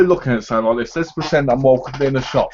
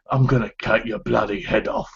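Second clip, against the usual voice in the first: soft London hard-man threat; London accent; 4 dB quieter than usual. Shown as a demonstration. Londoner showing how to woo American women, London accent. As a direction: lay on a quiet London accent. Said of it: "London accents".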